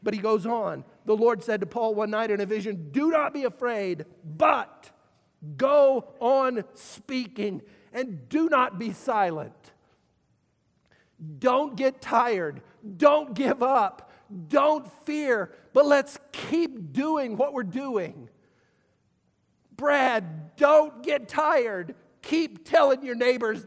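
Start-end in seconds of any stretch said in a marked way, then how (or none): 2.9-9.7 louder, slow and emphatic; forceful preaching. Acted. Preaching the commission loudly. 11.4-23.7 louder, higher, slow urgent plea; rally them, don't let them quit; fervent exhortation. Real, not acted. Pastor urging Brad and the church on, loud and fervent.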